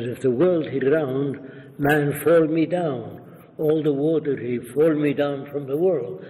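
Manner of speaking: imitated Arab accent, broken English; Arab dialect. Arab leader argues the earth cannot be round, imitated Arab dialect. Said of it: "That's what he spoke".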